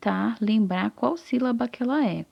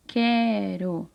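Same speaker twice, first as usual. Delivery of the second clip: slow word building. Shown as a demonstration. Teacher sounds out the word.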